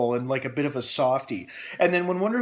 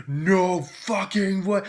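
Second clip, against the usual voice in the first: excited disbelief; 6 semitones higher, much slower than usual. Retold or imitated. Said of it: "Like, loudly in the theater".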